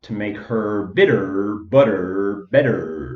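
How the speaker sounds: loud, strong American accent with heavy R sounds. Comparing how accents handle the r sound, demonstrate it in an american accent. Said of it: "The American".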